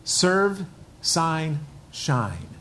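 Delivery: each word set apart, falling on shine; slow deliberate list. Shown as a demonstration. Pastor drilling the congregation on three words, deliberate. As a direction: spell out "Serve, sign, shine" word by word. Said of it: "I want you to remember these three words".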